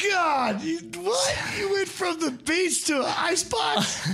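real astonishment at a guest's move from Brazil to Alaska; stunned disbelief. Real, not acted. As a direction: shout it in total disbelief.

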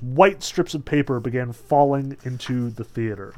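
usual speaking voice

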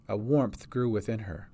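ordinary delivery

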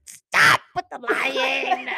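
high, loud, slow laughing scold; laughing mock fury; angry laughing. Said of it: "So angry".

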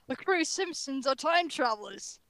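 slow, badly faked Australian accent; terrible Australian accent. Reading the last topic aloud, bad Australian accent. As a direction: read it out slowly in a poor Australian accent. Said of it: "reading the topics in terrible Australian accents".

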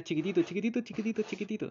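high squeaky repeating of chiquitito; tiny tiny. Retold or imitated. Describing the tiny boy, high-pitched.

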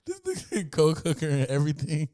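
high-pitched, amused repeat through laughter; real laughing disbelief. Real, not acted. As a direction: crack up while repeating the outrageous detail. Amused repeat of the other's line.

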